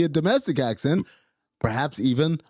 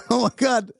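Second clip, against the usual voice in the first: excited shout; 10 semitones higher than usual. Real, not acted. Finally recognizing the voice.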